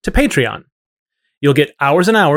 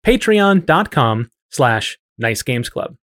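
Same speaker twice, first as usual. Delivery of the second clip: slow clear web address; much slower than usual. Shown as a demonstration. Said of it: "P A T R E O N".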